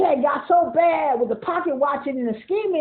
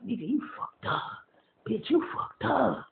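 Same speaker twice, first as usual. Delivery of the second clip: mock taunt; 4 semitones lower, 10 dB quieter than usual. Mocking people down bad.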